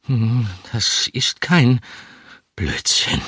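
slow, hollow voice from the tomb; grave voice. A narrator's reading. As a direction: speak like a voice from the grave. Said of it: "sagte er mit Grabesstimme".

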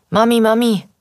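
put-on high, good-natured whiny little boy; pestering child. A narrator's reading. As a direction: call for mum like a cheerfully nagging kid. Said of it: "Eddies gutmütig quengelnde Stimme".

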